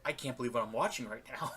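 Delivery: soft, understated disbelief; hushed amazement. Retold or imitated. Retelling his reaction to the promo, quietly amazed. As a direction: say it quietly, as if stunned. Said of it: "I sat there in amazement".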